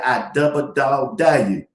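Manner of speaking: slow, low drawn-out dare; a light grandma voice; grandmama's dare. Retold or imitated. Grandmama defends herself, slow and low. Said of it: "I just said".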